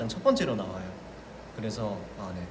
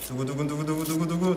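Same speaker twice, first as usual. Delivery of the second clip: drumroll. Acted. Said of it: "자, 열어보겠습니다".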